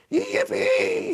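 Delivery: very high joyful shout. A narrator's reading. Grandpa Joe shouts for joy, very high. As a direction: whoop it out. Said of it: "he shouted".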